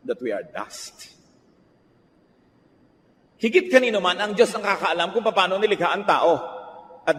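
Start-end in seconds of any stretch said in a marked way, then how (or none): 0.1-1.1 hushed scripture reading. Acted. Scripture verse read with gravity.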